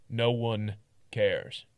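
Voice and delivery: a crack in the voice. Acted. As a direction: voice cracks on cares. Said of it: "my voice kinda cracked".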